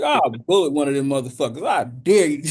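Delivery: hammed-up dare; mock tough guy. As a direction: bluster at the alien.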